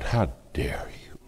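whispered outrage. Retold or imitated. Inner outrage at pastor.

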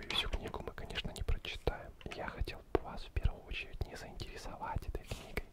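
normal talking voice

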